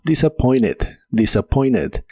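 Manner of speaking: "disappointed" said as "disappoined"; silent T. Shown as a demonstration. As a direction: model conversational "disappointed" without its T. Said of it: "la T de esta palabra". ("disappointed" sin la T)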